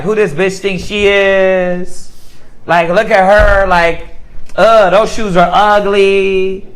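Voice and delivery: slow, drawn-out sneer at a stranger; catty put-down. Retold or imitated. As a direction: look her up and down with your voice. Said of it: "and you're like".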